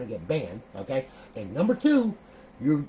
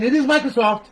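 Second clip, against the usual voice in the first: MICROSOFT pushed much louder and higher; emphasized Microsoft; 10 semitones higher, 11 dB louder than usual. Real, not acted. Host blaming the company for glitches, loud stress on Microsoft. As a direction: hit Microsoft with a high, loud burst. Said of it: "Notice I emphasize the word".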